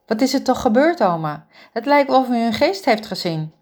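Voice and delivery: hoger, snel doorratelend en bezorgd; bezorgde jonge vrouw. Acted. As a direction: een jonge verzorgster die zich zorgen maakt om haar oma. Ingrid vraagt oma bezorgd. (bezorgde Ingrid, hoger en luider pratend)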